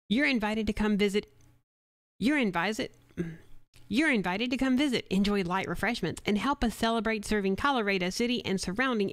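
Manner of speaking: bright, punchy commercial voice-over; radio ad read. Acted. Voice actor recording a spot for a diner, upbeat ad read. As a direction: sell the restaurant reopening like a local radio spot.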